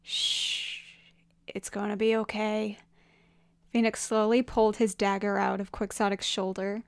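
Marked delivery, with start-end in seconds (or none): 0.0-2.8 soft, hushed reassurance; soothing whisper. Acted. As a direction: hush and comfort in a whisper. Soothing a dying man.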